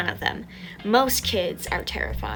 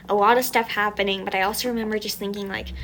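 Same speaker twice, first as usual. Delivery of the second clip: usual speaking voice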